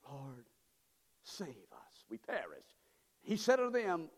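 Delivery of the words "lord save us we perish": frightened plea. Retold or imitated. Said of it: "woke him up and said".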